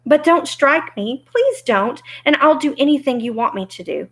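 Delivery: high-pitched frightened plea; trembling plea. Acted. Little man begs not to be struck, trembling. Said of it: "in a trembling voice".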